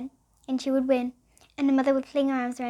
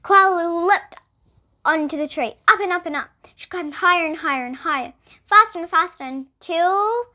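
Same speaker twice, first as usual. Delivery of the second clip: loud, high building race excitement; storyteller racing with the climb; excited; 4 semitones higher, 7 dB louder than usual. Acted. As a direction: build the thrill as she climbs.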